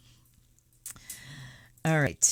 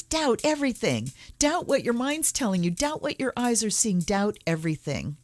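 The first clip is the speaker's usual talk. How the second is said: fervent exhortation; 7 semitones higher than usual. Acted. Urging viewers to question everything.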